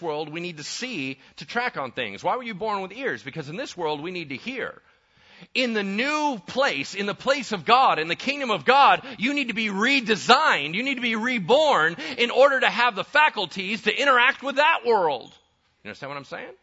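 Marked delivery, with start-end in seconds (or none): 5.5-16.5 loud, rising preacher's climax; full-force preaching. Acted. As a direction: drive it home to the congregation.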